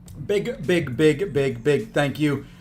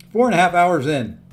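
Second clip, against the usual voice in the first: talking with mouth full; chewing while talking; 4 semitones higher, 4 dB louder than usual. Real, not acted. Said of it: "Sorry for talking with my mouth full".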